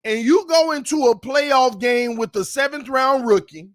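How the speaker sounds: loud, incredulous sports rant; indignant. Real, not acted. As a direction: call the team out, a little upset. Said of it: "the one that makes me mad, a little upset".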